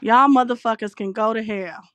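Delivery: heated, deliberate curse with a hard "Y'all"; real anger. Real, not acted. Host repeating her curse at the critics, angry. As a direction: send them to hell, pissed off. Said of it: "I'm just pissed right now".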